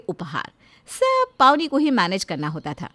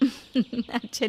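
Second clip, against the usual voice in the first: laughing; much slower than usual. Acted. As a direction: chuckle fondly before agreeing. Mother laughs at daughter's request.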